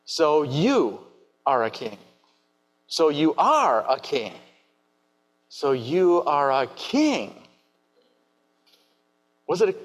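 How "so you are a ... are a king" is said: "So you are a king" slow, stress moving word by word; Pilate's reply tried several ways; trying inflections. Shown as a demonstration. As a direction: test each way Pilate could say it. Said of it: "We don't know the tone of his voice".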